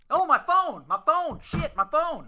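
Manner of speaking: high loud panic over the phone; panicked high. Acted. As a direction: yelp it in a fluster. Jeff finds phone in panic.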